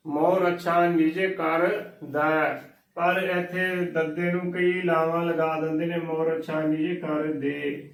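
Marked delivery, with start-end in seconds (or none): 0.1-2.6 slow line ending on ਦੈ with an open "ai" vowel; ਦੈ drawn out with open ai; correct pronunciation. Shown as a demonstration. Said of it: "ਦੱਦੇ ਨੂੰ ਦਲਾਵਾਂ ਦੈ ਦੇ ਨਾਲ ਹੀ ਉਚਾਰਨ ਕਰਨਾ". 6.0-7.9 line ending on ਦੇ with a closed "ay" vowel; ਦੇ with plain e, not ai; wrong pronunciation. Shown as a demonstration. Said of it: "ਦੇ ਨਹੀਂ ਬੋਲਣਾ ਹੈ".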